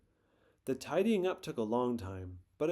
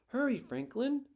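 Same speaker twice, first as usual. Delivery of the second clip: shouted; 11 semitones higher than usual. A narrator's reading. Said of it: "shouted Bear".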